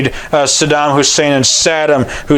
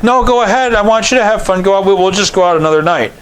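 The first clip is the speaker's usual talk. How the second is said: high, sweetly insincere permission; passive-aggressive; 4 semitones higher, faster than usual. Retold or imitated. Mother telling dad to go to his meeting, mock sweet. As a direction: say yes while meaning no. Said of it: "And she's like".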